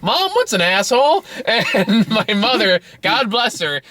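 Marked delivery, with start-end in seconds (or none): 0.0-1.2 put-on child asking. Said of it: "I turn to my mom and goes".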